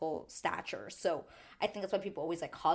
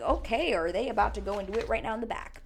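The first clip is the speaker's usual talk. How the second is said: shocked; 3 semitones higher, 5 dB louder, faster than usual. Retold or imitated. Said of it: "I was like".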